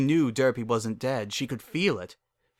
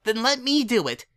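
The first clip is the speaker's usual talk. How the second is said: said quickly; 12 semitones higher, 5 dB louder than usual. A narrator's reading. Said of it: "she said quickly".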